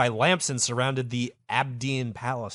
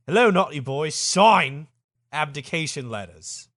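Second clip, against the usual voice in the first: British ambassador; 2 semitones higher, 6 dB louder than usual. Acted. Lamson confronting Farouk.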